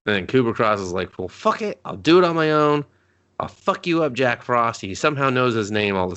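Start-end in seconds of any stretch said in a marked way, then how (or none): 1.2-4.8 high, mock villain snarl; villain threat.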